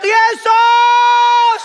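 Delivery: full-force high scream; loud, piercing, drawn-out yell. Retold or imitated. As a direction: reenact a terrified cry to Jesus. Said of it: "Saya teriak".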